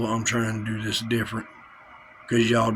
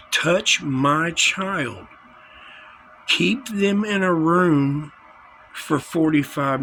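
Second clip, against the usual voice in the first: outraged; 4 semitones higher, slower than usual. Real, not acted. Outraged rant about child taken.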